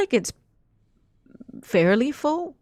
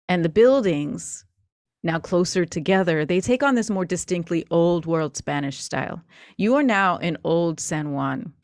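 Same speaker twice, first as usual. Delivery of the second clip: story narration. Acted. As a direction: paint the scene for the players. GM narrates scene setting.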